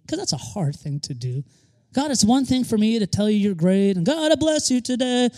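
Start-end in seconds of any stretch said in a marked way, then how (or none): 1.9-5.3 a hint of gushing worship voice, higher at the end; playful imitation of a worshipper's praise; mock praise prayer. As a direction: lightly imitate a showy prayer. Mimicking showy praise prayer.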